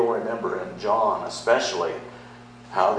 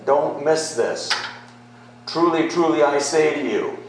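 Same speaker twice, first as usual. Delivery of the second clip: louder and higher, pressing each truly; urgent emphasis; 6 semitones higher, 5 dB louder than usual. Acted. Jesus urging his hearers not to miss this, loud and emphatic. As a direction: call them to attention, truly, truly said big and loud. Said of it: "Jesus is calling attention and he's saying".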